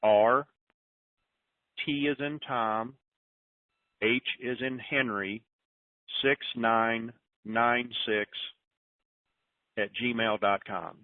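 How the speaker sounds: slow letter-by-letter dictation; slow, careful read-back for note-takers; slow spelled dictation. Shown as a demonstration. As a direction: spell it slowly, "T is in Tom". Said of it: "You want me to say it one more time?".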